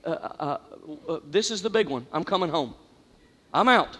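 a quiet, resigned farewell; resigned whisper. Retold or imitated. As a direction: let go as if about to drown. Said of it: "There was a moment in there I went".

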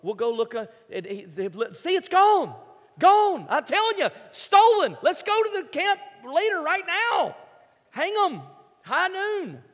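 very high, loud hammed-up boy; outraged kid. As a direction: squeal for justice like a tiny sheriff. Camper escalates to lynching.

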